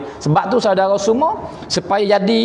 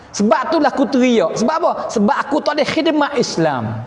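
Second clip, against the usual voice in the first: higher-pitched, impassioned retold plea; acted captive's plea; 6 semitones higher than usual. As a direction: plead Abdullah's case to the king, pitch raised. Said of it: "Ya tak tuan raja".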